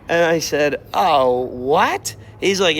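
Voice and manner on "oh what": shocked. Retold or imitated. Told dish only served Sundays.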